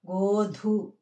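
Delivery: గోధు drawn out, breath released on "dhu"; aspirated dha. Shown as a demonstration. Teacher showing a mahaprana letter, aspirated dha. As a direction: let air out on the ధు of గోధు. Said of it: "గాలి వదులుతూ పలకాలన్నమాట మహాప్రాణాక్షరం".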